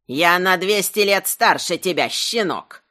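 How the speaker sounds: put-on mildly indignant old rogatina. A narrator's reading. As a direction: put the youngster in their place. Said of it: "с негодованием продолжал голос". (с лёгким негодованием)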